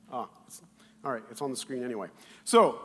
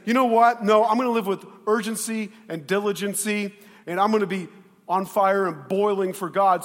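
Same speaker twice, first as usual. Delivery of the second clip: loud, emphatic declaration; fired-up resolve; 4 semitones higher, 8 dB louder than usual. Acted. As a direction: declare it with urgency, pitched up. Acted vow of zeal for God.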